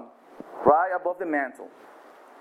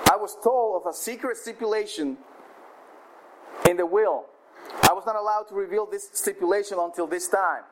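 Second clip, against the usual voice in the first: auctioneer announcing; 2 semitones higher than usual. Acted. Auctioneer reveals the will.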